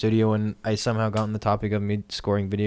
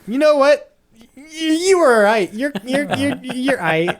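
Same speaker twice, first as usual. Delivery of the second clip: high, loud mock Australian voice; hammy Aussie impression, pitched high; Australian accent; 13 semitones higher, 5 dB louder than usual. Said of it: "Mick Gordon said".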